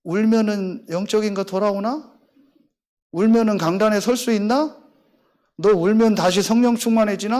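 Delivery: lightly voiced demon planting doubt; insinuating demon. Demon to the weeping pastor, softly voiced taunt. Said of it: "이 귀신이 하느냐?".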